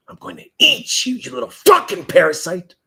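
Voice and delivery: mom's voice speaking through him to threaten the troll, playful. Pretend. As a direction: speak as if the mom's voice is coming out of you. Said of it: "That's actually my mom saying that".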